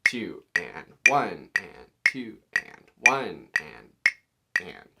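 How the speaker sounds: slow, drawn-out counting along with the click; counting cut time. Shown as a demonstration. Teacher counting slowly along to show students cut time. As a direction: count it out slowly so they feel the two. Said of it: "so that you can start feeling that cut time".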